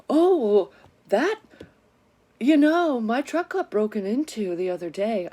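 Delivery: high, loud, airy mock dad; hammed-up excuse from dad; mock father. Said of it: "And he goes".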